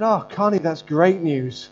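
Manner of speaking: loud, high and slow with joy; delighted exclaim. Retold or imitated. Pastor telling tearful student her news is great. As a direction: burst out in delight. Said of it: "I said".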